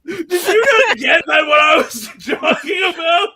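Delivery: shouting through laughter; laughing exasperation. Real, not acted. Friend didn't get the joke, laughing shout. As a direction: yell it while cracking up.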